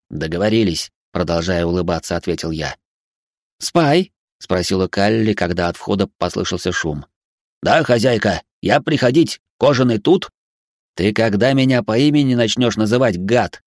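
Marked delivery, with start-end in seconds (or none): 3.6-4.1 calling out. Acted. Calli calls out to robot. 7.6-10.3 chirpy broken-speech robot; a lightly voiced servant robot. Robot Spy speaks broken Russian.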